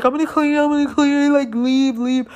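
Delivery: put-on flustered drunk guy. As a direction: plead like a sloppy drunk trying to tidy up. Drunk date protesting in bathroom.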